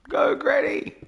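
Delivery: high, loud cheer. Real, not acted. Cheering on a viewer's fit grandma with a high loud cry.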